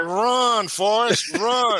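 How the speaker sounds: high mock urging call. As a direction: call it like the film line. Movie catchphrase called out as advice.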